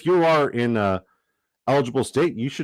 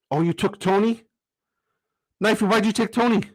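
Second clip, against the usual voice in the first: much higher, baffled question at a friend's pick; can't believe he took Tony; surprised; 10 semitones higher than usual. Real, not acted.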